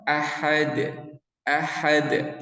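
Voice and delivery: ahad with a light, easy bounce on dal; light qalqalah. Shown as a demonstration. Teacher models light qalqalah on ahad. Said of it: "ringan-ringan aja".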